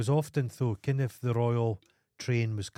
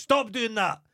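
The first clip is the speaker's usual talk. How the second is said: retold telling-off to cat; 12 semitones higher, 4 dB louder than usual. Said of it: "and goes".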